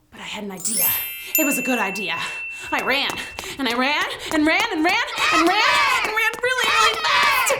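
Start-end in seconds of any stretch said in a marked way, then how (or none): 3.6-7.5 rising higher and louder to a shout; building excitement. Acted. Storyteller acting the frantic run through the woods, building. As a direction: speed up as the running builds.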